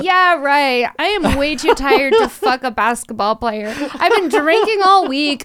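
loud, laughing protest; laugh-cry your way through it. Real, not acted. Laughing retort about tiredness.

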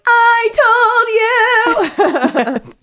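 high, drawn-out singsong gloat; sung-out triumphant I-told-you. Acted. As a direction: crow it in a long singsong. Fancy gloats at being proved right.

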